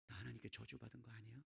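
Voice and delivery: very quiet, low voice; hushed, downcast inner doubt; despairing question. Acted. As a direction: ask it almost under your breath, afraid of the answer. Acted despairing question to God.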